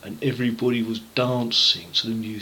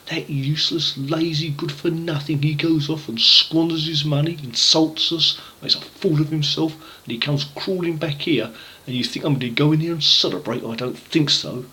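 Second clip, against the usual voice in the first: indignant elder brother, higher and sharp; mild put-on anger at the lazy brother; angry; 4 semitones higher than usual. Elder brother complains about his brother, mildly angry. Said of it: "was very angry".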